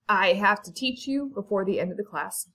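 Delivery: talking while choking on spit. Real, not acted. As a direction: push through a throat full of spit. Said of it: "choking on my spit".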